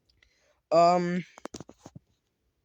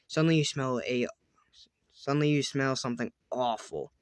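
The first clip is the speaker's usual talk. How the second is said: tense whisper; 3 dB quieter than usual. A narrator's reading. Tense story moment, whispered.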